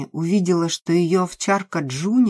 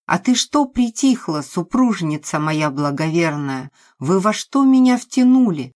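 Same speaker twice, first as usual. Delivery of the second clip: raging at wife; 2 semitones higher, 4 dB louder than usual. Acted. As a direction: tear into them both. Nikolai rages at wife.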